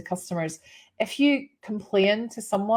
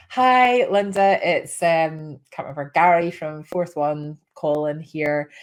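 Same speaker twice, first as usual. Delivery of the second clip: lightly voiced radio host greeting, louder; a hint of upbeat phone-in presenter; 3 semitones lower, 5 dB louder, slower than usual. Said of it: "the guy on the radio station said".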